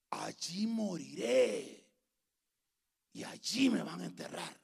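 slow, whispery solemn vow; hushed vow. Acted. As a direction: let the shout fall away into a dramatic whisper. Ruth's vow drops to a hush. (susurro solemne y dramático)

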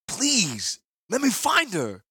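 high, raw and pleading. A narrator's reading. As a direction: beg with a raw, wounded voice. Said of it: "in a voice as raw as a wound".

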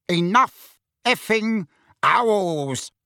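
slow, bitter mutter from the big uncle; muttering Uncle Vernon. A narrator's reading. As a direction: grumble it under the breath, slowly. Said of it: "muttered Uncle Vernon".

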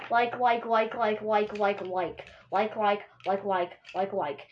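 mock-defiant run of one word; deliberate repetition. Host overdoing the filler word on purpose, rattling it off. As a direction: reel the word off over and over, winding down.

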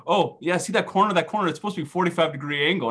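a hint of a know-it-all brother; lightly voiced nitpicking brother. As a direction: lightly mimic a carpenter pointing out a flaw. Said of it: "he all of a sudden starts saying".

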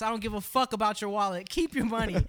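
high, loud furious demand; angry yell. Retold or imitated. Telling the guy to hand over the box, angry yell. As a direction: shout him down.

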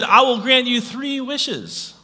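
booming genie, high and slow; grandly granting a wish. Retold or imitated. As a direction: proclaim it like a genie. Genie voice in joke.

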